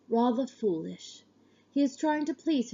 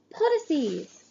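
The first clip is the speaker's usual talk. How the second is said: name called out higher and louder; 6 semitones higher than usual. A narrator's reading. Sister calling her brother's name again, louder. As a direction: call him out boldly. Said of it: "louder this time".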